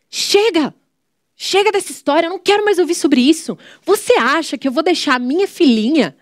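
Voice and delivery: high-pitched, firm retelling of an angry mother; angry mom. Retold or imitated. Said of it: "a minha mãe ficou muito brava". (mãe brava, voz bem mais aguda)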